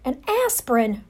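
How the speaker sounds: mother aghast at the word; horrified mother blurting it out; gasped. Acted. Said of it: "Ralph's mother gasped".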